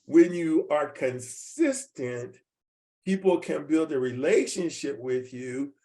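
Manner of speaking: slow, deliberate and weighty; slowed way down for emphasis; slow emphatic restatement. Shown as a demonstration. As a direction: spell it out slowly so it sinks in. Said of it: "Let me say that one more time".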